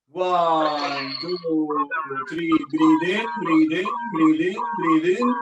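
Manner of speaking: loud coaching call, breathe in stretched; rally the group to breathe in. Real, not acted. Teacher calls the count to the whole room, loud.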